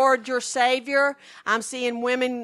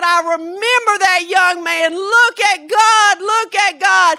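much higher mock-weeping man voice; 8 semitones higher, 9 dB louder than usual. Speaker retelling Dave's reaction to news of the healed deaf man, imitating Dave weeping. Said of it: "He just started weeping".

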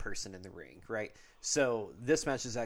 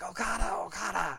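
rough, growly, very high calling voice; 9 semitones higher, 3 dB louder than usual. Imitating a man who calls out Okada's name, speaker uses a growly voice. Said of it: "he has this kind of growly voice, like".

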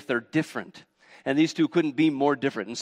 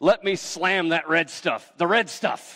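loud, rude, manly bellowing voice; 4 semitones higher, 3 dB louder than usual. Retelling a Bible verse in loose slang: Esau's loud, rude, manly voice. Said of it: "in his loud, rude, manly voice".

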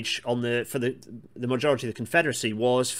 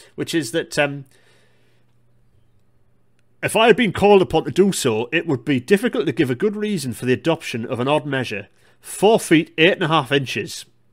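loud, put-on, generic northeast England accent; 4 semitones higher, 8 dB louder than usual. Reading out a quote from the Stevensons in a generic northeastern accent. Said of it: "my best, like, general, generic northeastern accent".

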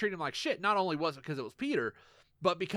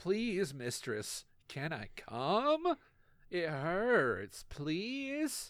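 put-on wavery American pleading, one word drawn out; 5 dB quieter than usual. Mocking an actor's bad American accent, plead for permission in a wavery Tom Hardy American voice. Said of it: "sounds like he's asking permission".

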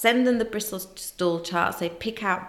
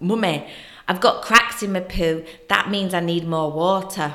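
put-on loud, strong Northern accent; 5 dB louder than usual. A mother acts out her four-year-old daughter's reply, in a strong northern accent. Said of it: "because she's really got a strong Northern accent".

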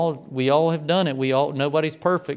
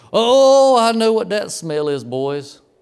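put-on loud, high proclaiming to whole room; 6 semitones higher, 6 dB louder than usual. Retelling how a guy walked into the room and spoke to the boys, imitating loud talk. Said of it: "he's real loud".

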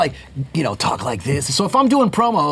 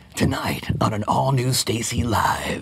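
sleazy, pervy trailer announcer delivery; 5 semitones lower, 5 dB quieter than usual. Asked for a promo voice, the speaker demonstrates the pervy promo guy version. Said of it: "Pervy promo would be like".

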